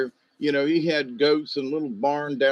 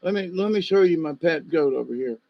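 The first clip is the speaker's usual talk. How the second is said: lightly voiced old neighbor, higher and quick; imitating old neighbor; 5 semitones higher than usual. Neighbor calls young man over, higher coaxing voice. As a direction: beckon like a friendly odd old man. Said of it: "he's like".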